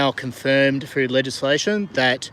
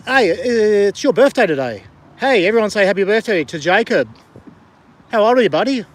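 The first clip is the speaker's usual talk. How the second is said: high, loud, hearty call to a buddy; birthday shout-out; 7 semitones higher, 7 dB louder than usual. Real, not acted. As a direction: call it out to everyone, pitched up. Live birthday shout-out to a viewer.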